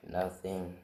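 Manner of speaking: resigned sigh, then a small reply; mock sad. Scolded hero gives up arguing, mock sad. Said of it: "All sad".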